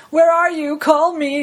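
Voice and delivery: lightly voiced needy message; pleading voicemail, half-acted; Doofenshmirtz message. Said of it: "his, like".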